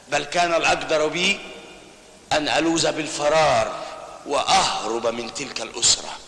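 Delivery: slow, measured formal speech to the judges; courtroom plea. Acted. Lawyer defending his wife before the court, slow and solemn. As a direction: weigh each phrase like a closing argument.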